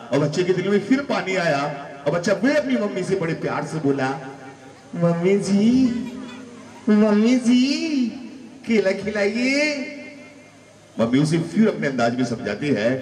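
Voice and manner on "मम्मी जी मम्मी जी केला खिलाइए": put-on high, pleading little child's voice; childish begging whine; whiny child. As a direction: wheedle like a small kid begging for a balloon.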